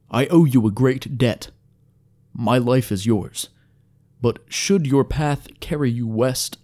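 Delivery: lightly voiced frail elf, measured pleading; formal, weakened elf. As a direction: ask humbly in short, feeble phrases.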